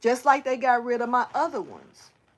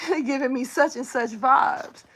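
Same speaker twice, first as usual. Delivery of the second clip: laugh, then say it more openly; amused repeat. Retold or imitated. Repeating the thought to viewers, amused and open.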